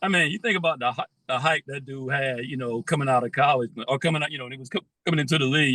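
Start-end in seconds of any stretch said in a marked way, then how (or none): 4.3-5.7 fast, broken by a hiccup. Real, not acted. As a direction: hiccup cuts the word. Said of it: "I got the hiccup".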